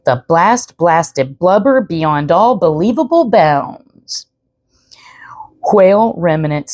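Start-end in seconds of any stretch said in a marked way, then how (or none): 0.0-4.2 "The blast blasted blubber beyond all believable bounds" whispered slowly. Shown as a demonstration. Narrator whispering the tongue twister to listeners, slow whisper. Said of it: "Try to say that three times fast".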